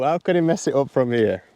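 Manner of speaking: mock commentator voice; golf commentator. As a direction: narrate yourself like TV golf coverage. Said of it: "it's a case of sort of how".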